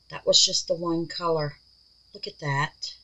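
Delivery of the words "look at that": soft, hushed, admiring. Real, not acted. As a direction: say it softly in awe. Admiring the piece, then whispering.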